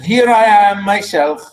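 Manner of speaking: slow, drawn-out declamation; stately dramatic reading; lightly voiced proud king. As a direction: announce yourself as king, unhurried. Reads Oedipus introducing himself.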